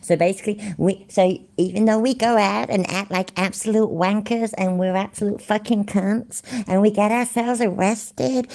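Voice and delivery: a sneering take-off of the YouTuber; mocking paraphrase. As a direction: parody him begging for money. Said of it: "he's proper laying it on thick".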